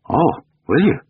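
high, swooping mock surprise; sarcastic. A narrator's reading. Lover answering the offer to live together, sarcastic. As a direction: scoff at it with a rising lilt.

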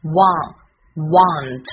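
"want" built from its vowel, slowly; sound-by-sound build-up. Shown as a demonstration. Teacher blending sounds for learners, "want" slow and distinct. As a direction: sound out the a, pause, then "want". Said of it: "A的发音是".

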